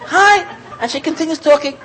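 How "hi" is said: casual hi. Retold or imitated. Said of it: "you know".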